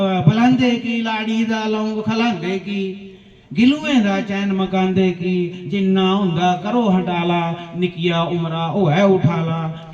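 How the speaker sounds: metrical verse easing downward; poem recitation. Acted. Poet quotes his satirical couplets, measured recitation. Re-reads verse after explaining it.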